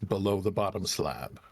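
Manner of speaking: careful stone voice message. Acted. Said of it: "needs to make sure he gets this right".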